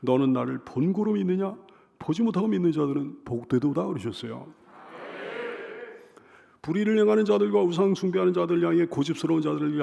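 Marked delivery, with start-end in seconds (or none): 0.0-3.8 calm, understated rebuke; mild reproof. Acted. Preacher voices Jesus answering doubting Thomas, mildly reproving. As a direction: correct the doubter without raising your voice. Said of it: "단지 도마를 향해 이렇게 책망하셨어요".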